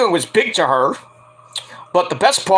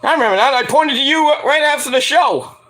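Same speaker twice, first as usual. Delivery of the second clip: imitating Natalya; 7 semitones higher than usual. Natalya telling Jade she remembers her, mock sweet. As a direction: play the veteran reassuring the rookie. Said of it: "Natalya says".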